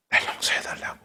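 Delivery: whispered confession; hushed apology. Retold or imitated. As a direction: whisper the plea for forgiveness. Retold tearful apology. (속삭이듯 용서를 구하며)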